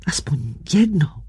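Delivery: soft breathless whisper, voice gone. A narrator's reading. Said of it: "zašeptala". (šeptem, bez hlasu)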